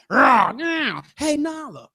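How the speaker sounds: a touch of lion growl, then drawn-out chat; lightly acted lion small talk; lightly voiced lion. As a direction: play a lion casually chatting with a friend. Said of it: "can you imagine two lions".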